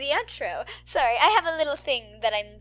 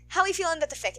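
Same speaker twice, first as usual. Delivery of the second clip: laughing question; 5 semitones higher, much faster than usual. Real, not acted.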